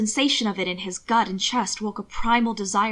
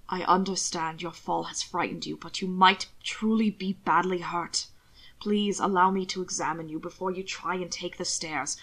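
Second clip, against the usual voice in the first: gentle pleading; 3 semitones lower than usual. Acted. Hannibal pleading gently with frightened Will.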